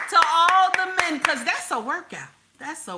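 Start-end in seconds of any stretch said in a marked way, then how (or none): 0.1-1.2 raised, higher call to the crowd; emphatic rallying call. Real, not acted. Streamer calls for one more hand clap, emphatic rallying call. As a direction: call it out like a toast.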